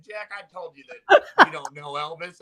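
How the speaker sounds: laughing it out, loud and slow. Retold or imitated. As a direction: get the words out through a big laugh. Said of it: "Uncle Chuck started dying laughing".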